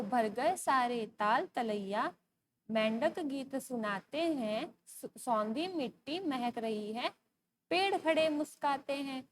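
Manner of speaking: slow, measured verse reading; poem recitation. Acted. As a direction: recite line by line, stretching the words. (धीमी लय में कविता पाठ)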